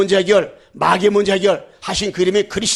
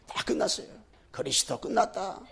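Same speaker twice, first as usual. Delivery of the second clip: soft, near-whispered it is finished; hushed assurance; 14 dB quieter than usual. Acted. Preacher softly assuring the congregation, near whisper. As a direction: drop to a whisper. Quiet contrast before shouted repeat.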